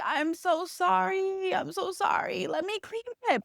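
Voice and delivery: high, soft, pleading little voice; a meek, high, hushed sorry; pitiful apology. Retold or imitated. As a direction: beg forgiveness in a tiny high voice. Drunk girl apologizing to host.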